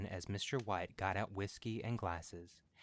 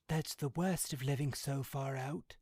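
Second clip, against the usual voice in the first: sudden violent outburst; 6 semitones higher, 4 dB louder than usual. A narrator's reading. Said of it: "cried Mister White with sudden and unexpected violence".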